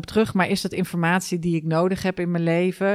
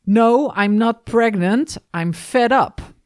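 exasperated quote; 4 semitones higher, 4 dB louder, slower than usual. Retold or imitated. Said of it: "volgens mij was de titel".

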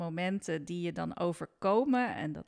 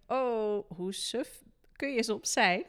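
exasperated; 4 semitones higher, 6 dB louder, slower than usual. Retold or imitated. Mock self-reproach about silly mistakes.

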